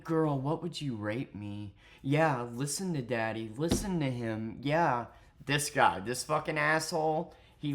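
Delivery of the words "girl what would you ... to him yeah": lightly imitating a sleazy flirt; a hint of a mocked come-on; put-on smooth talker, understated; mock seductive. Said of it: "he constantly talks like this".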